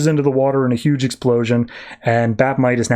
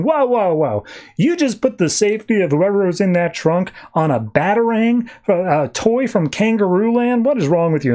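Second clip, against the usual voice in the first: higher-pitched comic disbelief; mock appalled objection; 6 semitones higher than usual. Batmite scolds Batman over the risk, mock appalled. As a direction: take him to task, pitched up.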